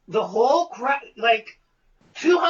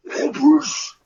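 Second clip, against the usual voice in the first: mock sigh; 3 semitones higher, 5 dB louder than usual. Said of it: "he goes like this".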